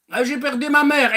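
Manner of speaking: high plaintive lament; hammed-up grief; mock whining. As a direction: moan about it like a sulker. Mock complainer listing losses.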